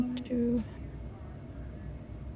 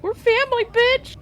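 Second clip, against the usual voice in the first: mock yell; 12 semitones higher than usual. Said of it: "I'm like".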